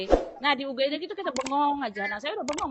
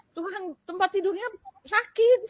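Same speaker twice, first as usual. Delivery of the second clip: slow plea; 6 semitones higher than usual. Retold or imitated. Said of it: "saya bilang gitu".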